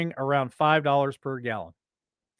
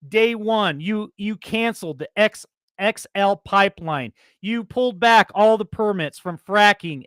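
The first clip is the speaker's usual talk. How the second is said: angry yelling rant. Real, not acted. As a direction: yell it out, fed up and disbelieving. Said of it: "I know I'm yelling in the mic".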